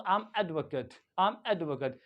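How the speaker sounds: "advocate" as AED-vuh-kuht; noun pronunciation. Shown as a demonstration. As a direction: end "advocate" on a short 'cut', falling. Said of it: "तो मैं कहूँ".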